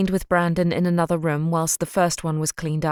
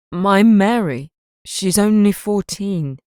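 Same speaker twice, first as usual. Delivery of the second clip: louder, slow, breaking with grief; anguished father; 3 semitones higher, 5 dB louder, slower than usual. Acted. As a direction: cry out for his daughter, slow. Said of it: "His bottom lip began to quiver".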